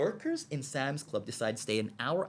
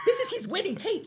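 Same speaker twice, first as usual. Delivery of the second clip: laughing. Real, not acted. Punchline laughed out high.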